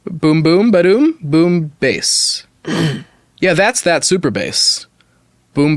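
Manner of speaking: mock-serious recital that builds to a rhythmic chant; dramatic reading. Reading a song's lyrics to friends as mock drama. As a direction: read it deadpan, then let the boom ba-dooms climb. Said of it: "Dramatic read".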